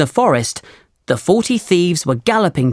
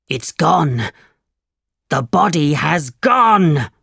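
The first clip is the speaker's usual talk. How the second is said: shocked cry; slower than usual. A narrator's reading. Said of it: "he cried".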